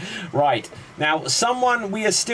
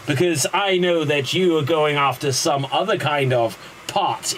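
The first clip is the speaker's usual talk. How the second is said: hammy villain gloating; dramatic monologue; 3 semitones higher than usual. Acted. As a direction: ham up a power-mad rich villain. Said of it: "a dramatic monologue".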